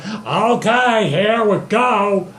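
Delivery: slow, drawn-out pronouncement; lightly hammed-up, stretched grand reply; Great Dragon. Dragon grants Goku's wish, slow grand voice.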